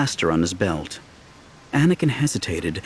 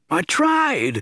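squeaky nervous voice; 12 semitones higher than usual. Acted. Didi's voice in story.

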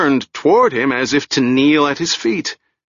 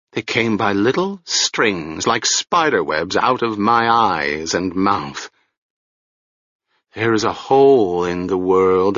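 lightly voiced haunted old woman; a hint of a broken, wandering crone. Old woman speaks as character.

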